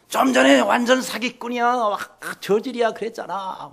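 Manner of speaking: high-pitched, indignant mock outburst; angry accusation. Emperor quoting the insult back at soldiers, acted indignant accusation.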